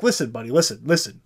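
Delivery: a hint of a jokey Swedish accent; lightly put-on Swedish accent, soothing a worried colleague; mock Swedish accent. The speaker brushing off Ekholm's worry, light mock Swedish accent. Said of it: "Again, with a racist Swedish accent".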